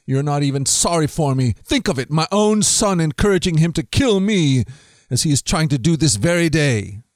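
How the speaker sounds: angry king. Acted. Saul accuses his officers, a lightly acted angry rant. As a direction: demand answers from disloyal men. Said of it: "Saul shouted to his officers".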